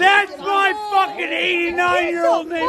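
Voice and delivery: crying shout. Real, not acted. Yelling at woman in confrontation.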